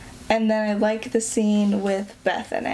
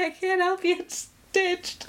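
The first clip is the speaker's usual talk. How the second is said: high, lightly voiced Eddie; a quick mock of the character; imitating Eddie; 8 semitones higher than usual. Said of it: "He's like".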